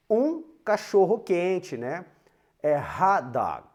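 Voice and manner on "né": ordinary talk, nothing marked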